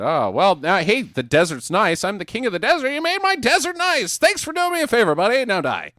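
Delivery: high, smug villain voice; mock villain voice. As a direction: fake gratitude turning into a threat. Voicing Set thanking then threatening.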